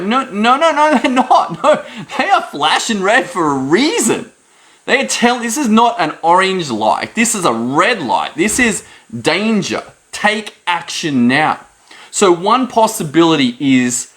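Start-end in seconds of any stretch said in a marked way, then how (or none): 0.0-11.7 high, laughing no no; laughing insistence. Retold or imitated. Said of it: "I'm like".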